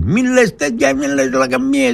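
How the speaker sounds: a hint of a frightened colleague begging him to stop; imitating a nervous friend. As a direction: mimic him anxiously shushing you. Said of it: "Λέω".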